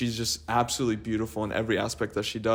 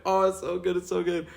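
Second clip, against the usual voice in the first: higher, overly polite reassurance; polite reply; 7 semitones higher than usual. Retold or imitated. Family reassuring the waiter about the food, higher and polite. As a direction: brush the waiter off sweetly. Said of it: "we're like".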